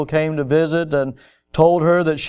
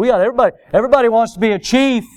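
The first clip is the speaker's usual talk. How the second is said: raised, quick preacher's voice; impassioned preaching; 6 semitones higher, 3 dB louder, much faster than usual. Real, not acted. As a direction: drive it home to the congregation, pitched up. Preacher turns up the force.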